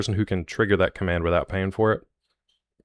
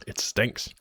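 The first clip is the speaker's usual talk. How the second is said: whispered disgust; 3 semitones higher, 4 dB quieter than usual. Real, not acted. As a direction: breathe it out in a whisper. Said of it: "God, it stinks".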